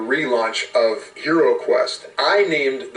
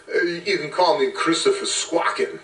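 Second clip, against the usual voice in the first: higher-pitched seagull character voice; 6 semitones higher than usual. Acted. Seagull tells the players its name, in a put-on bird voice. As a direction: answer as a self-introducing cartoon seagull, pitched up. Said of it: "they asked the seagull".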